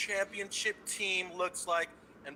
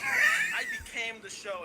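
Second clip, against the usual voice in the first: laughing boast; 4 dB louder, slower than usual. Real, not acted. Bragging caller, repeating the boast.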